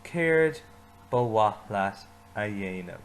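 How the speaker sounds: choral repeat with Cared punched; stress on Cared. Shown as a demonstration. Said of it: "Say it with me".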